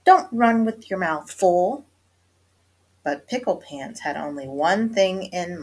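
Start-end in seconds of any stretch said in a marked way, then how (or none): 0.1-1.8 louder, higher motherly warning; hollering mother. A narrator's reading. Mama warns her running kitty boy, hollering. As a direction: holler a warning after a child. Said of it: "hollered Mama".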